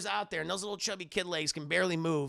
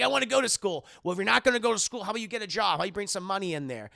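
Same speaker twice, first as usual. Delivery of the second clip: mock argument; 3 semitones higher, 6 dB louder, much faster than usual. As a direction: bicker back loudly. Arguing with mom.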